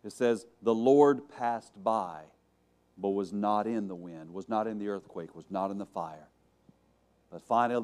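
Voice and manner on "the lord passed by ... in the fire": low, softening scripture reading; subdued and low, settling into a hush; hushed retelling. A narrator's reading. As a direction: let each 'not' phrase drop quieter. Quiet retelling of the passage.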